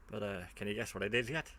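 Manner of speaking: lightly attempted Australian accent, rising at the end. Repeating the catchphrase to viewers, badly faked Australian accent. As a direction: have a weak go at an Australian accent. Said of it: "Sorry, can't do Australian accents".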